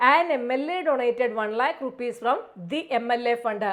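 very slow, deliberate reading; slow read-aloud. Shown as a demonstration. Teacher reading the full answer slowly to students. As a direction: read the whole answer word by word. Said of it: "reads full answer".

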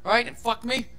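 fast, petulant rant; childish sulk. Retold or imitated. Grumbling to himself about the relationship, fast childish sulk. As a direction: rattle it off like a sulking kid. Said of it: "I got a little childish".

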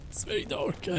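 whispering. Real, not acted. Scared whisper in dark game.

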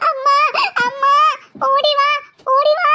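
frightened shout for mother; scared call for help. Acted. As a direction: call mom in a panic. Sister calls mother again.

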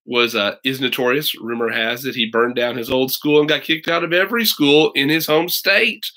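reading the blurb aloud to listeners; storyteller reading a book blurb; back cover read. Acted. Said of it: "I'll read you the back".

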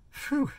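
high, soft puff of relief; relieved exhale. Real, not acted. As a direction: blow out a tired breath. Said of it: "Catch my breath".

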